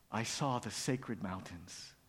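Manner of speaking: slow, low, soft recollection; awed. Acted. Little mouse tells frog of vision, slow and awed. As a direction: let it out slowly, in quiet wonder.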